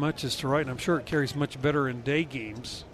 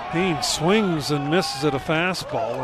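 excited call; 3 dB louder than usual. Real, not acted. Strikeout call on radio.

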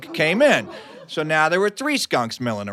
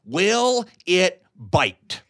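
slow dim uncle; 2 semitones higher, much slower than usual. Retold or imitated. Dimwitted uncle asks about skunk.

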